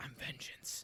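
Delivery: hushed, breathy, barely voiced whisper. Show someone who disagrees how he did the line: whispered Robert Pattinson impression. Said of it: "had a whisper".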